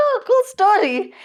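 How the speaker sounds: slow, offhand and high; mock dismissive. Brushing off the crying girl's story, mock dismissive. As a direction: brush it off lazily. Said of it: "It's like".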